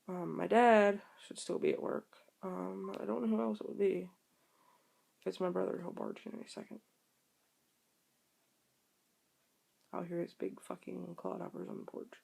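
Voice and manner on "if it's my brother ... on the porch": hushed. Real, not acted. Listening for her brother arriving.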